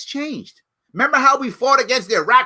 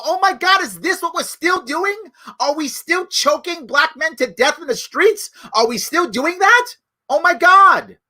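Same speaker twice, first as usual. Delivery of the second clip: raised, aghast questioning; horrified disbelief; 5 semitones higher than usual. Retold or imitated. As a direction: play a viewer appalled at what he sees. Public shocked by choking video.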